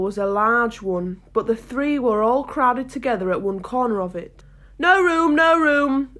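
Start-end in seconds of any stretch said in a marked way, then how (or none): 4.8-6.1 high, loud cry of protest. A narrator's reading. Tea party shouting at Alice as she arrives, crying out. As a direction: call it out to turn someone away. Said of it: "they cried out".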